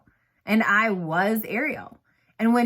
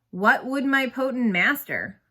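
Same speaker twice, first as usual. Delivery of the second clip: bored reading; 3 semitones higher than usual. Acted. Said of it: "sound as if you're waiting for the crosstown bus".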